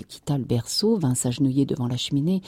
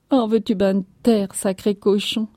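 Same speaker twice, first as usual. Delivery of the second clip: tearful scolding; 5 semitones higher, 3 dB louder than usual. A narrator's reading. Wife turns on crying child.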